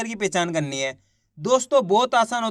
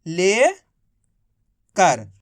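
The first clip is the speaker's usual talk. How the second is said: slow drawn-out word; 4 semitones lower, much slower than usual. Shown as a demonstration. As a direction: stretch लेकर out very slowly. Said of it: "तो मिलके बन गया". (लेकर बहुत धीरे खींचकर)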